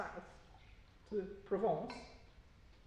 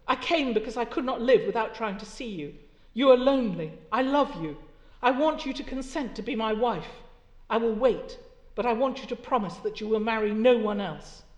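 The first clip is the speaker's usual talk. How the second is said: earnest suitor; 6 dB louder than usual. Acted. Lydgate's proposal read aloud.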